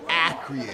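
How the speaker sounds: "acreate" drawn out slowly, laughing; Khaled's mispronunciation. Retold or imitated. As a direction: slowly stretch "acreate" for "accurate". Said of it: "he means business when he says acreate".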